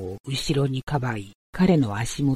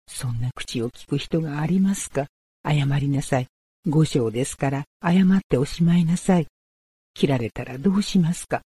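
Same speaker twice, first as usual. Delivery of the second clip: put-on higher, urgent pleading girl; pleading young woman; 4 semitones higher, 3 dB louder than usual. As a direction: beg anxiously, rising fear. Otsu pleads for Takuan.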